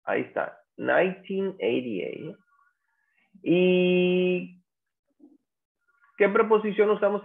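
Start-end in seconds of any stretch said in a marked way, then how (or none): 0.8-2.4 slow "nineteen eighty-eight", each half distinct; year in two pairs. Shown as a demonstration. Teacher wraps up the example for the class, slow year in pairs. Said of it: "De dos en dos lo pronunciamos".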